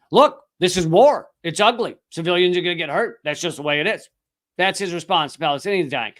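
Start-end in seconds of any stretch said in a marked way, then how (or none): 0.1-4.1 mild mock of a press secretary shrugging it off; brushing it off with a hint of official calm; mocking Kirby. Host mocking Kirby to cohost, lightly voiced shrug. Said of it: "he says".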